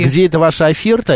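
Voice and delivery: soulless robot voice. Retold or imitated. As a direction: say it flat like a machine. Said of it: "Без души".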